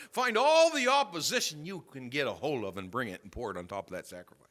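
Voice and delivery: loud, driving preacher's command; emphatic preaching. Real, not acted. Preacher urging people to fetch water for the sacrifice, emphatic. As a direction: preach it with rising force. Preacher bursts into full force.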